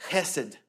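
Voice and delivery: chesed with a throaty h at the back of the mouth; Hebrew chesed. Shown as a demonstration. Pastor teaching the congregation the Hebrew word, back-of-throat sound. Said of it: "get in the back of your throat".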